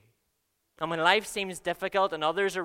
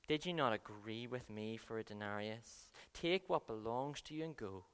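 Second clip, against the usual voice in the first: calm reply; 6 semitones lower, 9 dB quieter than usual. A narrator's reading. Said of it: "But he replied to one".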